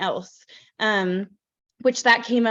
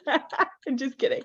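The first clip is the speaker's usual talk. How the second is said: chuckling, slower; laughing; 3 semitones higher, 3 dB quieter than usual. Real, not acted. Host laughs off her inspection joke, laughing. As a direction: laugh through the retraction.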